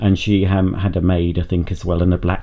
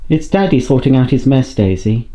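higher, louder pet-talk to Daisy; talking to the dog; 3 semitones higher, 4 dB louder than usual. Real, not acted. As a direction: coo at the dog as her daddy.

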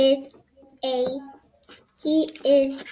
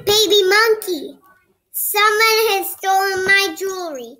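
higher, louder, hurried plea for help; a flustered client rushing to the detective; upset client; 4 semitones higher, 3 dB louder, faster than usual. Acted. Client begging the baby monkey detective for help, higher and hurried. Client reports stolen jewelry.

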